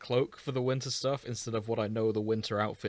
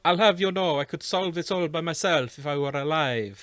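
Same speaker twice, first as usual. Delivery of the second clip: higher, louder proud huff; huffy boast; 5 semitones higher, 4 dB louder than usual. Acted. Rivali to the group, huffy boast. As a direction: brag with wounded pride. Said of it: "Rivali huffs".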